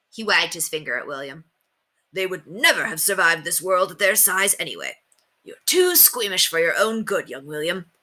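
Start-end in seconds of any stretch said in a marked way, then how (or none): 2.1-7.9 a hint of a proud old knight, pleased; lightly voiced knight. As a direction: read it as the self-assured knight.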